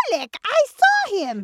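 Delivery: high, loud protest; insistent sheep. Acted. Sheep pleads with her doubting husband, insistent.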